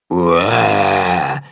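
repeated roar. A narrator's reading. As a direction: Willi tries the roar himself. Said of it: "wiederholt Willi".

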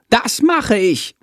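high, slow little bat voice; eager bat. A narrator's reading. Chandor agreeing to fly the star, high and slow. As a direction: agree slowly, delighted.

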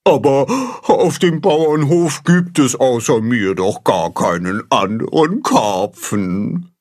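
whining carp. A narrator's reading. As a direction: complain sadly to the bird. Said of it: "jammert Baldrian".

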